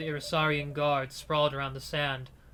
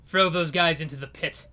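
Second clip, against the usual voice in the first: louder gangster order; a hint of a cold thug barking orders; gangster command; 5 dB louder than usual. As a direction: gangster commanding his men.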